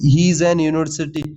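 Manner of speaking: slow, deliberate read of the wrong article; teacher spells out "an university" slowly; slow wrong-form demo. Shown as a demonstration. Teacher to exam students, reading the error slowly. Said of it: "तो यहाँ पर ए नहीं आएगा, एन आएगा".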